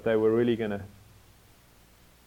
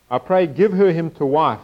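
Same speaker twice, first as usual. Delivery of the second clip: raised, louder Bible-reading voice; scripture reading; 4 semitones higher, 6 dB louder than usual. Acted. Preacher reading the father's request to the congregation, projected scripture reading. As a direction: read the verse out to the room.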